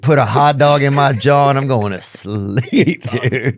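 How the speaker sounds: mock fireman. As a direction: lightly play a fireman off to bed. Mocking a lazy fireman.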